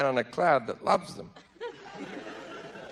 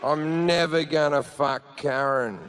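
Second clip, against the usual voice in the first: slow, drawn-out groan of dismay; dismayed fan; 3 semitones lower, 4 dB quieter, much slower than usual. Acted. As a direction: draw it out as the fan's dread sinks in. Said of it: "he's going".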